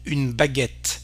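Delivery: "baguette" with open "eh", ending on T; open E sound. Shown as a demonstration. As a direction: say "baguette" as "ba-GET". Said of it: "here we have the sound A".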